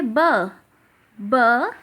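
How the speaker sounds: "ब" as a short isolated consonant sound; the sound of B, "ब", not its name; phonics letter sound. Shown as a demonstration. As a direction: say "ब" alone, then repeat it after a pause. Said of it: "बी की sound होती है".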